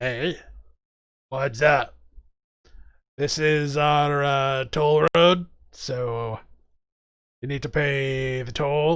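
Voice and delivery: slow goblin character voice. Voicing goblins who demand a toll from a player: goblin voice. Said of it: "they're like".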